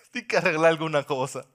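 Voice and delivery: laughing mock echo; amused scoffing repeat. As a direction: laugh at the excuse as you repeat it. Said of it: "Y tú estás loco".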